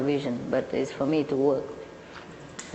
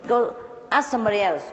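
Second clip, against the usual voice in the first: a touch of huffy complaint; annoyed plumber; 6 semitones higher than usual. Retold or imitated. Plumber leaving, mildly irritated at the lady. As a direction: brush her off, fed up. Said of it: "packed his stuff and said".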